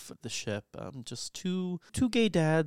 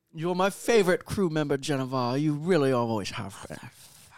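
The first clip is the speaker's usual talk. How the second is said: put-on Scottish movie-star voice, louder; 6 dB louder than usual. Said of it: "Sean Connery?".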